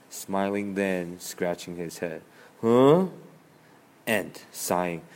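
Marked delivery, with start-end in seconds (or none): 2.6-3.1 confused. Acted. Grasshopper confused.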